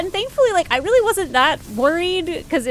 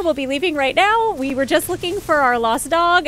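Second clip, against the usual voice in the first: higher, louder, hurried apology; flustered apologetic mom; 6 semitones higher, 3 dB louder than usual. Retold or imitated. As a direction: apologize fast like a startled mother. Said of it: "my poor mother is like".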